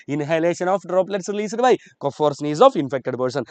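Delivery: very slow, syllables stretched; slow dictation. Shown as a demonstration. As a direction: drag it out so every student writes it. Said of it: "teacher dictates key answer again".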